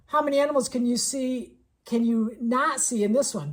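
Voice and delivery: a hint of a teasing read-aloud, rising on the question. Shown as a demonstration. A teacher reading the next page to her class, mildly playful. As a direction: lightly lead the kids into the next page. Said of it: "I'm like".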